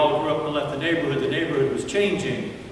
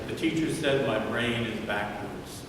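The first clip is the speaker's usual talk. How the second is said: put-on child crying; 3 semitones lower, 6 dB quieter than usual. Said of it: "the little boy cried and said".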